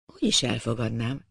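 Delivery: low, soft, grave oath; solemn vow. A narrator's reading. Eduard swears to the masked stranger, with a grave, solemn vow. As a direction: swear it like Horatius saving Rome. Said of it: "a Róma megmentésre esküvő Horácius hangsúlyával".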